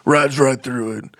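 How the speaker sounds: put-on redneck voice, easy and lazy; tired redneck. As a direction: play Billy Bob the redneck. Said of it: "Tired Redneck".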